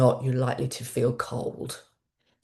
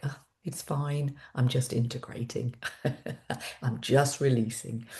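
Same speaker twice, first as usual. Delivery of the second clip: soft reassuring; 3 semitones lower, 6 dB quieter than usual. Retold or imitated. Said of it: "I'm like".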